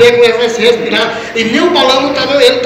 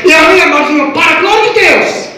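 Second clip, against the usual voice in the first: fervent preaching; 5 semitones higher than usual. Real, not acted. Preaching at raised pitch.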